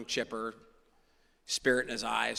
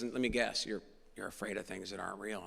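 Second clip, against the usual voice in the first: breathy whispered guess, softer; 4 semitones lower, 9 dB quieter than usual. Retold or imitated. Sponsor whispers his guess to the frightened newcomer. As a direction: lean in and whisper the secret.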